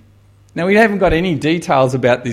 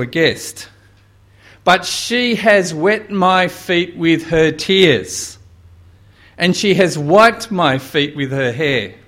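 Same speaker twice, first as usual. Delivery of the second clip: voicing Jesus; 4 semitones higher, 4 dB louder than usual. Preacher voicing Jesus' rebuke.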